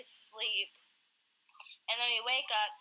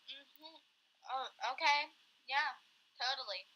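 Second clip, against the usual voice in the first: imitated half-there agreement, higher than usual; pretending to listen; 6 semitones higher than usual. Half-asleep girl humoring her grandma, pretending to listen. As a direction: fake being tuned in, agree along. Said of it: "like, pretending to listen".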